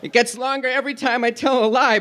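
a touch of a guilty little puppet; confessing puppet. Acted. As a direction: confess it sheepishly. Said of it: "Pinocchio confessed".

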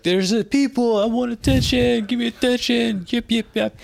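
high squeaky little dog voice; yappy chihuahua voice. Retold or imitated. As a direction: voice a needy yapping dog. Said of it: "the dog is like".

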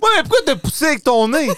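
talking through laughter; laughing fast and high. Real, not acted. Laughing hard after hum test.

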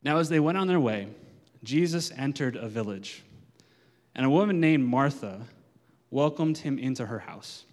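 slow, measured Bible reading with long pauses; slow scripture reading. Shown as a demonstration. Pastor reading Luke to the congregation, slow and measured. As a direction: let each phrase land, unhurried. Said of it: "I'm gonna read it slowly".

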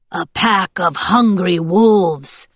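slow, growling wolf-soldier voice; growled. A narrator's reading. Wolf soldier menacing the thaumaturges, growled. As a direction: growl it slowly, drawing out the words. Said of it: "someone growled".

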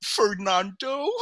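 Cher imitation. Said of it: "the way she sounds".

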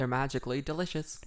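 mock Irish cereal-mascot voice; Irish accent. Host imitating a cereal advert, playful Irish accent. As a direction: put on an Irish leprechaun accent. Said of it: "Irish accents is the Lucky Charm".

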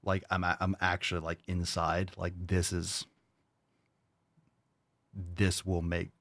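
low, subdued seriousness with long pauses; upset, contained. Real, not acted. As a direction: hold the anger in, speak low and halting. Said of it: "This gets me so upset".

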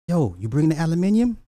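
high, loud eager question; mock street-talk asker. Acts out street exchange, first speaker.

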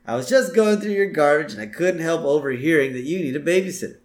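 smarmy lawyer sales talk; Lionel Hutz's voice. Retold or imitated. Lionel Hutz pitching himself to Homer, slick and loud. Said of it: "So he says".

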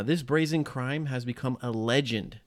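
a light attempt at a New York accent. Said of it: "That was my, uh, my New York accent".

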